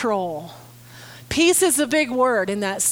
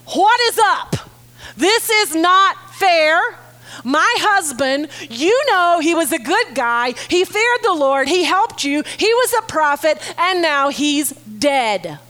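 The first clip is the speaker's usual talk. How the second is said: mock-outraged widow. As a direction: pour out her grievance with a raised voice. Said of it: "what I hear her saying is".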